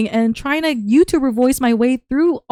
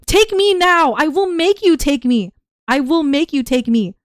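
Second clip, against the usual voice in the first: pleading chess piece; 5 semitones higher, 5 dB louder than usual. Pretend. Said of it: "pretend ... I'm playing white".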